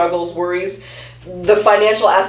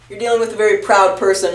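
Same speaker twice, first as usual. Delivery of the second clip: laughing. Real, not acted. Hold on.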